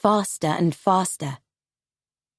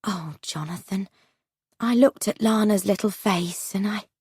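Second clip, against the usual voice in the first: a touch of sorrow, voice fading; mild sadness. Acted. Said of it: "Martha said sadly".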